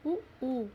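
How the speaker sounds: short उ then long ऊ, lips rounded; rounded vowels. Shown as a demonstration. Teacher showing how the mouth goes round, rounded vowels. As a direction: round the lips for उ and hold ऊ longer. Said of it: "वो वृत्तमुखी हो जाता है".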